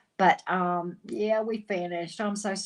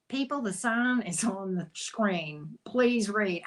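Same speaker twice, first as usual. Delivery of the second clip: smart-ass scolding; slower than usual. Retold or imitated. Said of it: "I'll get a little bit smart assery".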